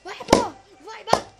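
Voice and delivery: loud, high cheering. Real, not acted. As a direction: urge the slap on, loud and high. Torcendo pela jogada. (torcida alta e aguda)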